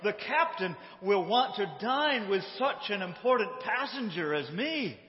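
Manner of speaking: mock-indignant self-importance; hammed-up appeal of an important passenger; passionate insistence. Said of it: "passionately saying and explaining".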